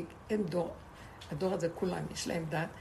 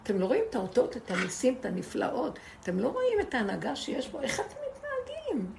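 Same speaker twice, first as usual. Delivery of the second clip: mild mock rebuke; 4 semitones higher than usual. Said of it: "כאילו צועק להם".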